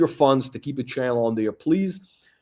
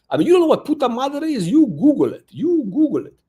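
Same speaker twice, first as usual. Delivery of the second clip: higher, louder, fast scornful taunt; scornful rant; 10 semitones higher, 4 dB louder than usual. Real, not acted. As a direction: taunt them, pitch up and push. Mocking rant at the caller.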